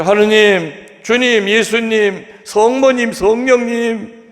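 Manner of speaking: high, slow pleading calls, name after name; calling out to God. Retold or imitated. Man dangling from a root calling on God and the saints, high pleading cries. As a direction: cry each holy name upward, stretching it out. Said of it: "그래서 하느님에게 소리 질렀죠".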